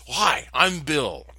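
lightly voiced eager Bill; friendly stranger. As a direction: introduce yourself with a big grin. Stranger introduces himself.

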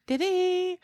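laughing. Real, not acted. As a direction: giggle the question out. Laughing at a funny moment.

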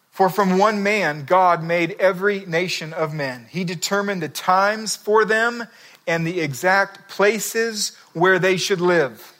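slow, measured Bible reading; scripture reading. Acted. Preacher reading Acts to the congregation, slow and measured. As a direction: read it out slowly like a solemn verse. Reads Acts seventeen aloud.

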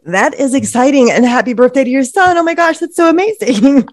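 slightly catchy throat after a sip; throat a bit caught from water going down wrong; frog in throat. Real, not acted. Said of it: "I got a little frog in my throat".

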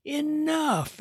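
sharp high shout, held back in volume. A narrator's reading. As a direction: cut them off with one word. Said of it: "Max raised his voice".

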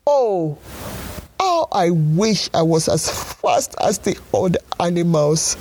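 lightly voiced snail lament; crying snail. Snail wishing aloud to be fast, mild crying. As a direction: wail it like a sad little snail. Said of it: "cried the snail".

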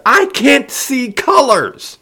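slow, high, anguished scream; anguished shout. A narrator's reading. Taryn confesses his colorblindness, shouting in anguish. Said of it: "he shouted back, tearing at his hair".

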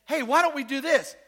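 a hint of a swaggering giant calling out; giant's challenge. Goliath challenging the army, lightly voiced loud dare. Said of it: "comes out from the lines and says".

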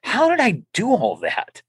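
wondering. Retold or imitated. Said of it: "I go".

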